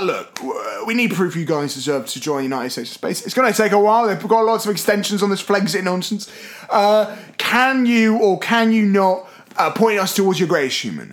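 lightly put-on Cockney; a hint of Cockney alien; Cockney accent. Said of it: "change from Cockney".

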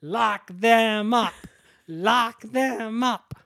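put-on slow, high children's chant; kids' breaking voices. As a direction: imitate a crowd of kids chanting, voices cracking. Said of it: "Their voices are breaking 'cause they're".

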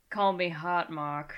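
put-on slow, drawn-out Australian accent; a heavy, hammy Australian accent; bad Australian accent. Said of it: "people who do not have heavy Australian accents".

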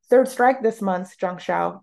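slow, loud scolding announcement; announcing sternly. Acted. Class captain announcing a strike to a cowering girl, stern. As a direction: lay down the strike firmly. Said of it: "announced to a cowering girl".

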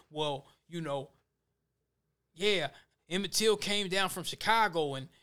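a hint of a hedging Mississippi lawman; mock Southern sheriff. A hint of a sheriff fumbling his cover story. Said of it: "they was talking like that".

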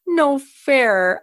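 lightly voiced small child; little kid. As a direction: imitate a toddler's pouty complaint. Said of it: "hearing a little kid be like".

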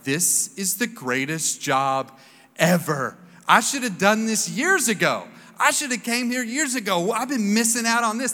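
first day at a job you love, thrilled; excited new hire. Retold or imitated. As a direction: gush about the new job.

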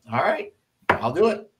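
retold uneasy consent, high and rising; hesitant agreement. Captain agrees to brief everyone at the Pentagon, unsure. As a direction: agree in a high, questioning lilt.

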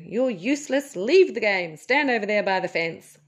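stern mock shout at a pupil; a teacher sending a kid off the field; teacher yelling. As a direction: bark it out like a fed-up games teacher. Teacher yelling at child in sport.

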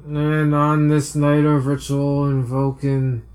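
put-on drunk voice. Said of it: "what a drunk person looks like".

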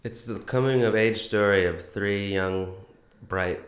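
hungover, foggy and slow. Real, not acted. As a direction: sluggish hungover voice. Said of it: "I'm very hungover today".

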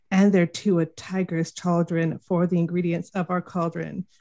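lightly voiced witch reciting; Shakespeare witch. Third witch reciting ingredients, lightly voiced. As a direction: recite the spell with a hint of a witch. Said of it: "let's do our full Shakespeare".

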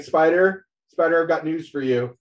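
a hint of an excited editor; Royce calling. Royce voiced calling Spider.

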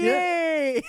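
high squealed cheer. Real, not acted. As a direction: squeal it with joy. Celebrating staying forty-nine.

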